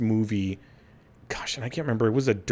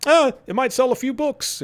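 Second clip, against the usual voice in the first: a hammed-up, higher Jewish accent, done badly; horrible Jewish accent; 14 semitones higher than usual. Old comic writers shrugging it off, in a bad Jewish accent. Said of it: "That's my horrible Jewish accent".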